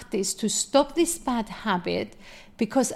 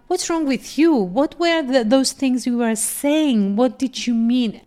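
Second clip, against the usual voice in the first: higher, rising, defensive echo of the question; retold indignant retort; 3 semitones higher, 3 dB louder than usual. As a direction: throw the question back at her, offended.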